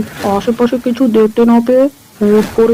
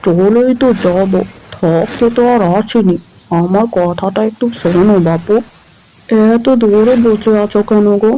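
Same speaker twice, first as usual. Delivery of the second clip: lecherous coaxing. Acted. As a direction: sweet-talk her closer, slyly. Man coaxing woman closer. (লোভী লোকের নরম, চাটুকার ফুসলানি)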